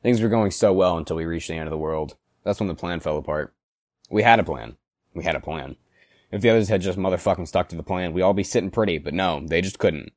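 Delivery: a bitter, seething toy figure telling his tale; voiced angry plush character; angry Mister Mad monologue. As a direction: simmer with rage, flaring into curses.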